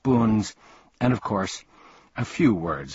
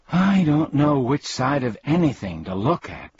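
higher-pitched, confused protest; 6 semitones higher, 4 dB louder than usual. A narrator's reading. Milo confused by the humbug's logic, protesting. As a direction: object in bewilderment. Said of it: "protested Milo".

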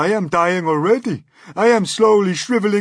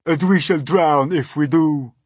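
loud, high wail of protest; crying out; 9 semitones higher, 14 dB louder than usual. A narrator's reading. Earthworm countering the Centipede's argument, crying out. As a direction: cry it out in dismay. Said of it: "cried the earthworm".

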